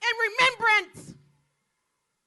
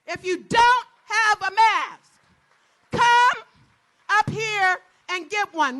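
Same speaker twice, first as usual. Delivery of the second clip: louder call-out; 6 dB louder than usual. Real, not acted.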